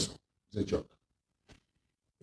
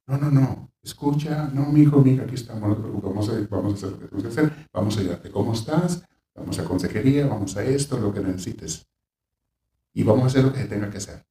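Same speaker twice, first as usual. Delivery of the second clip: calm reassurance. Shown as a demonstration. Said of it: "no le haces ver aquello como una tragedia".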